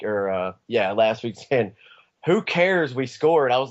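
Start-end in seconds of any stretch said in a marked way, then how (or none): 2.2-3.5 wife's yell, high and loud; loud, high-pitched mock outburst imitating the wife; imitated yelling. Wife yelling at husband last week over who scored, imitated yell. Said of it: "she yelled at me last week".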